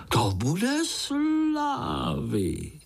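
high slow dreamy thought of glory; gloating spider boy. A narrator's reading. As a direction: savour the coming fame.

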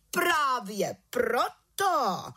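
very slow, high scolding. A narrator's reading. The chief witch scolds the little witch, very slowly. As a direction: drag out the rebuke. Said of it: "hubovala vrchní čarodějnice".

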